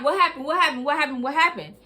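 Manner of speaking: hammed-up panicked mother; frantic mom. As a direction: rattle off the mother's worried questions. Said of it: "She like".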